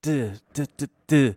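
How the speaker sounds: short "da" beats for guitar strums; imitated strumming rhythm. Teacher calling chord change to pupil, imitated strumming. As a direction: sound out a strum pattern. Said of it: "Change to C".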